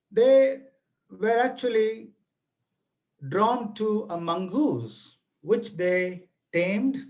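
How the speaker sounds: unhurried folk-tale narration with a little theatrics; story narration. A narrator's reading. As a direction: draw the listeners into an old village tale.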